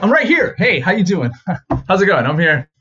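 high, bright hammed-up greeting; eager cheery answer. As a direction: beat the class to the joke. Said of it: "I'm like".

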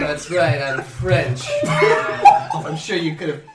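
hammed-up French accent, low; thick French accent. Stranger confesses he is French, mock French accent. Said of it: "told by my accent. It's so thick".

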